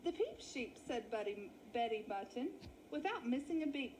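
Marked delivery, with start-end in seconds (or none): 0.0-0.8 a sheep matron, high sing-song welcome; chatty old ewe. Acted. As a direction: greet the newcomers like a nosy hostess. Betty repeats the name.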